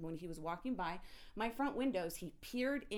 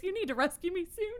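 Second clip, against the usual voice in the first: much higher and louder laughing plea; real laughing cry for help; 10 semitones higher, 8 dB louder than usual. Real, not acted. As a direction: beg to be rescued, half laughing.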